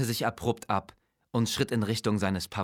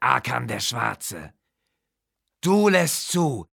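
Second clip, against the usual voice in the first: menacing necromancer king; 4 semitones higher, 3 dB louder than usual. Acted. Necromancer king scolds his weak-willed vizier, lightly voiced contempt. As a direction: lay down your power, cold and proud.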